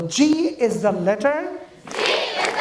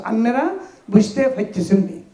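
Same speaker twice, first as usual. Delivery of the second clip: put-on Noakhali accent, quick question; Noakhali dialect; much faster than usual. Teacher repeating the joke for pupils, Noakhali dialect. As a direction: imitate Noakhali speech. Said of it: "এটা নোয়াখালী ভাষা".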